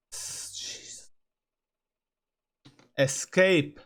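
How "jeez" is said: breathless whispered jeez. Real, not acted. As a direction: exhale it as a whisper of disbelief. Exasperated whisper.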